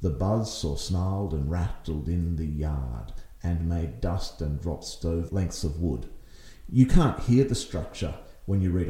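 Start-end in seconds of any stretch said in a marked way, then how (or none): 0.0-6.1 poem reading. Shown as a demonstration. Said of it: "when you say it as Robert Frost wrote it".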